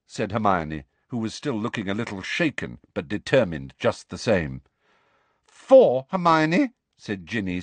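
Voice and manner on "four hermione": loud, sharp correction; scowling. A narrator's reading. Ginny to Hermione, scowling sharp correction. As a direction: snap the correction at her.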